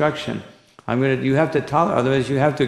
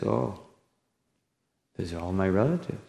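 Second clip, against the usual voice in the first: dismayed Arjuna; 5 semitones lower, 8 dB quieter than usual. Retold or imitated. Arjuna dismayed at seeing relatives.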